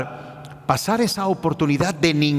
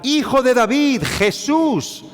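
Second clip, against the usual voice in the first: crying out; 5 semitones higher than usual. Retold or imitated. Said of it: "comenzó a gritar y a vociferar".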